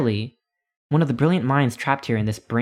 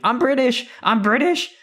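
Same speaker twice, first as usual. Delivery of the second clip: high, loud mock yell; hammed-up panicked shout through the streets; screaming; 12 semitones higher, 4 dB louder than usual. Paul Revere screaming to the town, mock yell.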